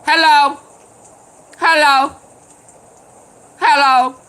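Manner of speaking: loud, high Martin-style Hello; Martin impression. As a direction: greet them the way Martin does. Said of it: "In my Martin voice".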